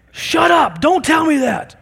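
high, loud, furious shout at a sibling; angry yelling brother. Retold or imitated. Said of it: "My brother just started yelling at me more".

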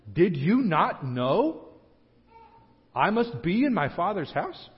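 slow, sincere, genuinely puzzled; earnest. Retold or imitated. Young Jesus sincerely asking his worried parents, slow and earnest. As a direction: ask it gently and slowly, truly meaning it. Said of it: "I think he actually means".

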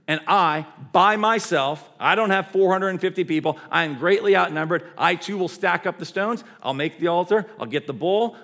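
confident challenge, slowing at the end; defiant declaration. Acted. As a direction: declare it boldly against the odds. Elijah declares his side of challenge.

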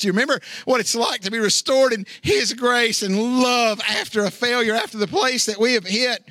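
high-pitched, fervent sermon delivery; preacher pressing the point home; impassioned preaching. Real, not acted. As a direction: preach it with rising passion, pitch held high.

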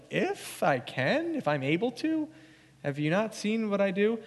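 as if asking how they could doubt; incredulous Jesus. Retold or imitated. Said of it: "you can hear the expression of Jesus".

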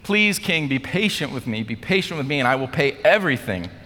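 high-pitched, acted pleading; desperate begging. Debtor begging the king for patience, pleading. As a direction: beg for mercy, dragging out "please". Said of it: "he's begging, he's pleading".

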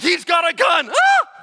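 high, loud yell of alarm; alarmed shout. Acted. Soldier warning the team about a gunman, yelling. Soldier spots armed man.

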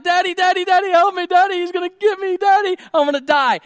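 put-on very high, loud panicked child voice; hammed-up frantic screaming for Daddy; freaking-out little girl. Girl begs dad as bee flies, acted freaking out. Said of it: "the little girl's freaking out".

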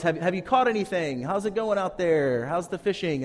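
calling from shore. Retold or imitated. Stranger on the shore calls out to the fishermen, mild mock shout. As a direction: lightly call out to the boat. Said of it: "the person yells".

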